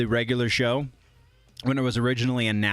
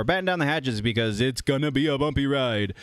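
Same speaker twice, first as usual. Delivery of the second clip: put-on Jamaican accent. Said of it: "a very bad Jamaican accent".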